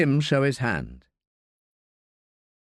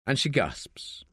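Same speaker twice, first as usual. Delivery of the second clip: breathy whisper; 5 dB quieter, slower than usual. A narrator's reading. Narrated gasp, breathy whisper.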